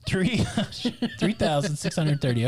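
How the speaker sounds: amused reply; laughing answer. Real, not acted.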